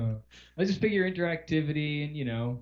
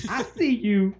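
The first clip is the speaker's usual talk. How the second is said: high, leering whisper-like creep; hint of a lurking stalker; creepy voice; 8 semitones higher, slower than usual. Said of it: "we've turned Paul into quite the fucking creep".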